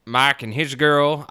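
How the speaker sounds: slow, drawn-out Southern twang on Mike; light Southern accent on the name. Pretend. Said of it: "I always say his name with a southern accent".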